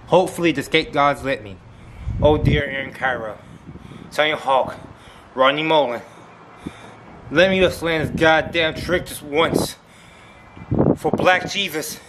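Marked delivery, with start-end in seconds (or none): 2.2-12.0 mock prayer. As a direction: pray to the skate gods with hands together. Mock prayer to skate gods.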